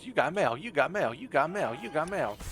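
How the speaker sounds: lightly mimicked looping notification, sing-song; imitated game alert. Player mimicking the game, mildly sing-song repeated alert. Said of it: "the game was".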